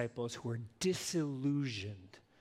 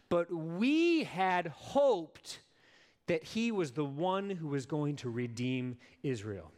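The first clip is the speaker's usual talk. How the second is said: dejected disciples. Acted. Disciples' crushed hope, read aloud.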